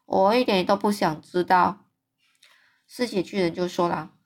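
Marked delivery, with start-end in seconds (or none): 0.1-1.8 very serious. Acted. BFG refusing to hear about eating people, serious. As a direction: shut him down gravely. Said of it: "友善的大巨人非常严肃地说".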